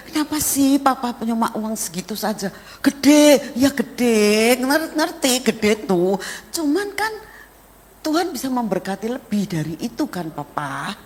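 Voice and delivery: mother's remonstrance. Retold or imitated. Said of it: "kata mamanya".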